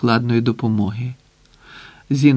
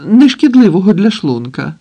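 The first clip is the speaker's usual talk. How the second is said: higher, louder, begging tone; pleading request; 6 semitones higher, 7 dB louder than usual. A narrator's reading. Hostage begging the terrorist for food, pleading. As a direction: beg for a bite like a frightened hostage. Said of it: "попросив Пустовоєв".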